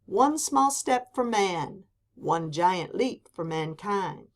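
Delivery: slow, measured, weighty phrasing; slow quotation. Shown as a demonstration. Teacher quotes Armstrong slowly, weighty. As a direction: say it like a historic moment. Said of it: "Neil Armstrong said".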